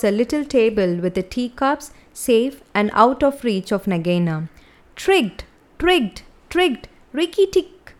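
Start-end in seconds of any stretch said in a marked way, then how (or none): 5.0-7.9 high gleeful chuckling voice; higher, triumphant chuckle. A narrator's reading. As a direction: crow the words with a laugh in them. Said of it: "chuckled Rikki Tikki".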